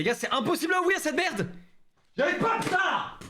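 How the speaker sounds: crié, aigu, à bout de force; s'énerver en forçant sur l'emballage; ouvrir un bocal coincé. Real, not acted. N'arrive pas à ouvrir l'emballage. (exaspéré en forçant sur un bocal coincé)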